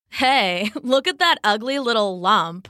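laughing sneer at the frog; a mean girl laughing at someone; lightly voiced, jeering cheetah; mocking cheetah.

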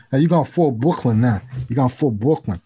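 put-on Brooklyn gangster accent; hammed-up Brooklyn accent; New York gangster. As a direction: play a movie mobster from New York. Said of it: "watched every single gangster film".

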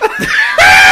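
real loud guffaw; loud laugh. Real, not acted. Laughs at own story.

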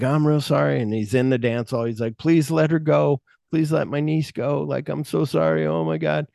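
put-on fearful pleading; mock afraid. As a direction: beg like a scared uncle, hammed up. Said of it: "he's acting afraid".

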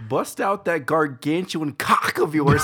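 mock announcer.

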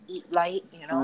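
talking while eating; mouth full. Real, not acted. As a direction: speak through a bite of food. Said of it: "I'm eating a, a granola bar".

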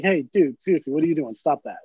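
calm, matter-of-fact request to stop; not mad. Retold or imitated. Bandmate asking a dude to stop, calm and not mad. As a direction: tell him off evenly, without any anger. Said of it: "say it without being mad".

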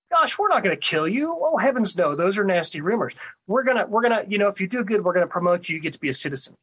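imitating a falsely reassuring official; lively mock-innocent sales pitch; mock reassurance. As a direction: play up the phony promise, pitch jumping on the denial. Voices camp officials' false promise.

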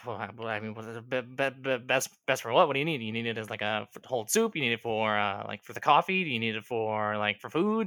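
stammering, restarting over-caffeinated stranger; jittery skull digger. Acted. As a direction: stumble over words and fire off question after question. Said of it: "he can't stop moving".

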